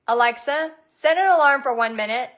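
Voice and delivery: talking to voice assistant. Real, not acted. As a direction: speak up for the smart speaker. Gives command to smart speaker.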